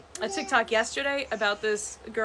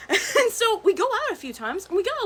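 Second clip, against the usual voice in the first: laughing; 10 semitones higher, 5 dB louder than usual. Real, not acted. Laughing at the punchline.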